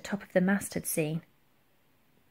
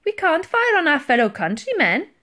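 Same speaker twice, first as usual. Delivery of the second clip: louder, higher protest; piping up; 8 semitones higher, 6 dB louder than usual. A narrator's reading. Titch objects to firing on countrymen, piping up. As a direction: pipe up in protest to a superior. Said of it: "piped up Titch".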